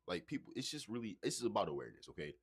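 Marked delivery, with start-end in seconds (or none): 1.2-2.3 speaking through a burp. Real, not acted. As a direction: burp while talking. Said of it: "Excuse me, I'm burping and shit".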